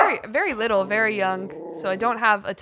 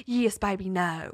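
lightly drawled Southern mother; a sweet, judging Southern mama; old Southern mom; 2 semitones lower, slower than usual. Acted. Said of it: "talk like an old Southern mom".

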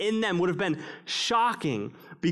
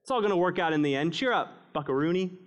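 mock cheerful platitude; faster than usual. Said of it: "Hey, pithy statements".

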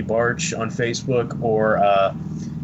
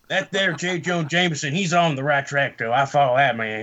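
redneck voice; 3 semitones higher than usual. Pretend. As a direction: play a folksy redneck. Redneck voice praising Jameson.

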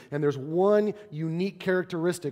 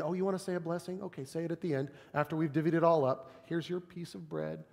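dismissive; 7 dB quieter than usual. Retold or imitated. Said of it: "maybe we invite Jesus in".

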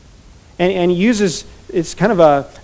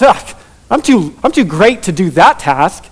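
mock self-important grumble; self-important disdain. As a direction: imitate someone who feels above the chore. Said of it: "arguing who's the greatest and thinking to".

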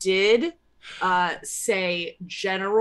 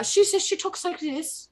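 high-pitched mock French Canadian diva; raised, put-on singer's speaking voice; impression of a singer; 9 semitones higher than usual. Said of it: "a singer".

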